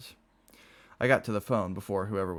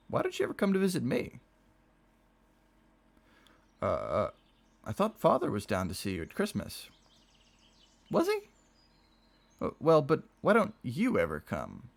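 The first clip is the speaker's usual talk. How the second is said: plaintive; 6 semitones higher than usual. A narrator's reading. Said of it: "He sounded plaintive".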